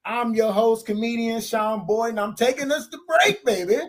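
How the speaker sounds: smooth host sign-off to the break; radio host outro. Acted.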